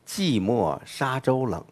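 寂寞沙洲冷 read slowly and softly, each word weighted; slow emphasis demo. Shown as a demonstration. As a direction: lean slowly into 寂寞沙洲冷 as the key line. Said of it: "这是全篇的重中之重".

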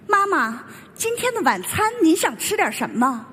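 mock-proper standard Mandarin, every syllable carefully enunciated; crisp standard Mandarin. Mother mimicking her child's video voice, in textbook standard Mandarin. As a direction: imitate polished, textbook Mandarin. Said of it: "说话字正腔圆，一口流利的普通话".

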